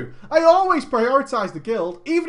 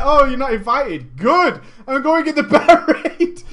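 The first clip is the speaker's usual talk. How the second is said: louder, laughing triumph; mock gleeful defiance; 4 semitones higher, 7 dB louder than usual. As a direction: gloat at being left out. Voicing himself defiant.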